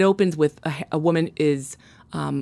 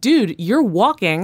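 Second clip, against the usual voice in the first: slow, higher-pitched exasperated retort; mock exasperation; 5 semitones higher, 4 dB louder, slower than usual. Reader scolding the self-pitying fiancé, mock exasperated. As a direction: spell it out slowly to a self-pitying jerk.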